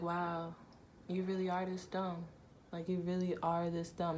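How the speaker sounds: thinking it in quiet shock; stunned inner thought. Retold or imitated. Woman being choked, thinking in stunned disbelief. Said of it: "in my head, I'm just like".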